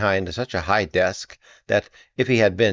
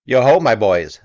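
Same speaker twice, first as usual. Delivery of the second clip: loud, high hearty call; jovial call; 3 semitones higher, 8 dB louder than usual. A narrator's reading. Fezziwig calling his apprentices, jovial shout. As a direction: call out like a jolly old master. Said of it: "said Fezziwig".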